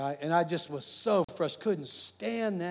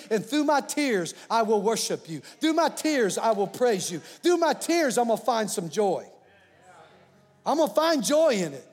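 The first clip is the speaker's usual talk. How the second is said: climbing higher and louder with each "through my tears"; rising prayer of praise; 3 semitones higher, 3 dB louder than usual. Retold or imitated. Preacher voicing his own tearful worship, building to a cry. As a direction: build the prayer to a pleading peak.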